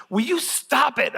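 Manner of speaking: high, drawn-out exasperated scolding; mock yell. Dad telling his kids off at the table, mock yell. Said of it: "I'm not really yelling at them".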